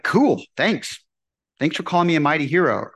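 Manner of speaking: breezy, offhand thank-you; casual thanks. Pretend. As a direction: toss it off lightly like easy praise. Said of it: "Would you say, like".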